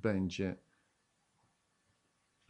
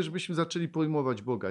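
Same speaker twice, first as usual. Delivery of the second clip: ordinary talk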